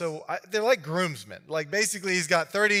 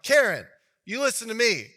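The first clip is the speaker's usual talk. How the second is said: higher, louder menacing demand; threatening Karen; 6 semitones higher, 6 dB louder than usual. Retold or imitated. Groomsmen threatening Samson's fiance, a mock menacing snap. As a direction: lean in and threaten her.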